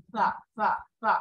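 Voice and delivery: "সা" with tongue slightly out, th-like; tongue-tip sa. Shown as a demonstration. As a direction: repeat "সা" with the tongue tip poking out. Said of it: "জিহ্বাটা একটু যদি বের হয়".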